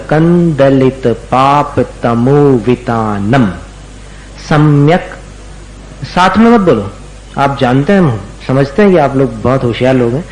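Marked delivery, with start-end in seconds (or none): 4.5-5.1 slow syllable-by-syllable recitation; careful pronunciation. Shown as a demonstration. Teacher reciting slowly for students to copy. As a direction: spell out every sound slowly for the class. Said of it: "पहले उच्चारण सुन लीजिएगा".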